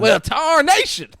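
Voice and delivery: high, loud, slow hammed-up redneck drawl; cartoonish redneck exclamation, stretched out; mock redneck. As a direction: tease with an exaggerated redneck holler. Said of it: "You can't do a redneck voice".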